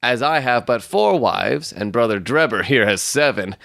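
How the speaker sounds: high, formal suitor's voice; self-important young suitor. Acted. Stangerson soliciting the daughter's hand from Ferrier, high and pompous. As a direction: make the claim with pompous formality.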